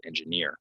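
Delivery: "engineer" said en-juh-NEER; weight on NEER in "engineer"; last-syllable stress. Shown as a demonstration. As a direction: model "engineer" with falling NEER. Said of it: "that's how you pronounce it".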